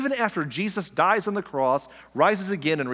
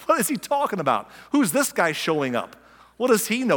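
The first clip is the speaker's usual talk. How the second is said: lightly acted incredulous questions, pitch jumping; mock disbelief from the crowd; scoffing wailers; 5 semitones higher than usual. Wailers turning on Jesus, mock incredulity.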